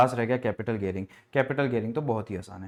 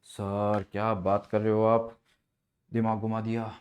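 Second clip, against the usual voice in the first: a lower, slower student voice, mock-amazed; 3 semitones lower, slower than usual. Teacher voicing a student wowed by the trick, mock-amazed. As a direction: play the dazzled student.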